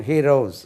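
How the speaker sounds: ஹீரோஸ் with a Z at the end; Z sound ending. Shown as a demonstration. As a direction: say the last ஸ் of ஹீரோஸ் as voiced Z. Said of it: "ஜெட் என்று உச்சரிக்கணும்". (ஹீரோஸ் கடைசி ஒலி ஜெட்)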